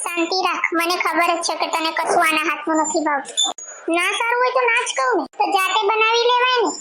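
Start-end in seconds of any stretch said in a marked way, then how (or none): 4.0-6.7 sulky retort. Acted. Daughter snaps back at mother.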